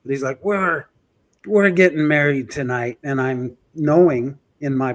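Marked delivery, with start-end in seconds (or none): 0.4-3.0 mock drunk voice. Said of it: "That's why I'm using that voice".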